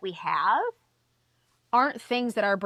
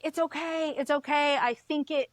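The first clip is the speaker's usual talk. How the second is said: lightly imitated officer, pitched up to soothe; reassuring officer; 6 semitones higher than usual. Police officer calming a bawling driver, mock reassuring. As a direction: anxiously placate someone in tears, higher voice.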